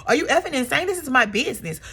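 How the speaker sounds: half-hammed scolding; mock anger. Porsha scolding Drew over her business, in a quick mildly heated rant. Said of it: "It's like".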